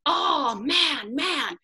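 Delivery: high, loud wail of dismay; frustrated yelling. Retold or imitated. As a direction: cry out as if re-enacting your frustration. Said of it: "I was just yelling".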